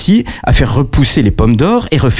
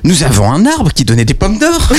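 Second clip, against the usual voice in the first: calling sentinel; 4 semitones higher than usual. Acted. Second sentinel calls out.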